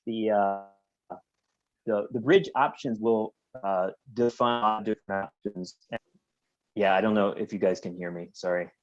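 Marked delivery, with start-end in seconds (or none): 0.1-5.8 choppy, glitchy connection audio; breaking up like a robot on a bad line. Real, not acted. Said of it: "sound like a robot there".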